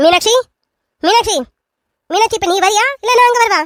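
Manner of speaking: very high yelling. In a drama, calling for a woman who is close by: shouting. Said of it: "என்னத்த எதுக்கு இப்ப காட்டு கத்து கத்திட்டு இருக்கீங்க".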